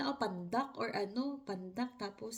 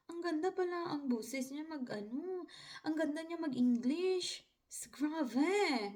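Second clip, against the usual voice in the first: whispered aside, higher and unvoiced; 5 semitones higher than usual. Gushing to herself during the call, whispered. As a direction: hush it like a secret to yourself. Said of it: "sabi ko talaga".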